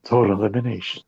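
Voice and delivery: low, soft DJ announcer. Pretend. Co-host playing along with the teasing, low DJ voice. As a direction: drop it low like a radio DJ. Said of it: "like your D J voice".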